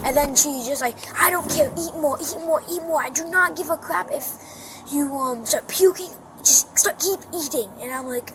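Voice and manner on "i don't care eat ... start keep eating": higher-pitched, insistent retold rant; imitating angry mother. Child retells mom forcing food, imitated angry insistence. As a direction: mimic mom pressing the order repeatedly.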